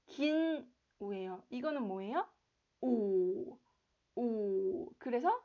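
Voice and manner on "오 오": long rounded u. Shown as a demonstration. Teacher demonstrating a long u. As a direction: round the lips and hold it. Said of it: "입술도 동그랗게 하고 길게".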